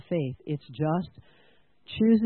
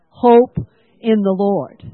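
rallying declaration to the room; loud call-and-response; 9 dB louder, slower than usual. Shown as a demonstration. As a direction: shout it out together, strong on hope. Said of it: "Will you say it with me?".

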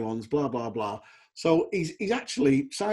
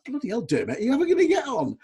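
retold teasing call; 10 semitones higher, faster than usual. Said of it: "and I'd go".

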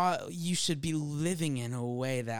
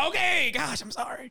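sheepish apology; 10 semitones higher, 3 dB louder than usual. Retold or imitated. Parker answering the Holy Spirit, mock sheepish. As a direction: apologize like a scolded kid. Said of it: "I'm like".

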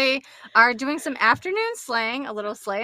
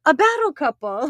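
excited; 5 dB louder than usual. Retold or imitated. Retold excited realization.

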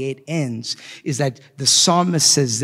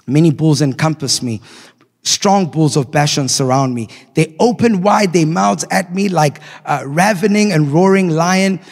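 forceful reading; 3 semitones higher, 5 dB louder than usual. Acted. Psalm's climax read with force.

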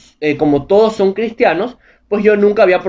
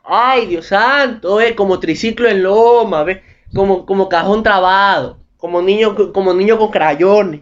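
mock cocky drunk; slower than usual. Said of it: "Me lo imagino al man diciendo".

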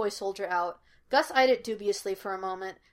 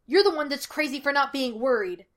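louder, higher accusing retort; testy and raised in pitch; snapping; 5 semitones higher, 5 dB louder than usual. A narrator's reading. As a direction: throw the accusation straight back. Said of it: "Gus snapped".

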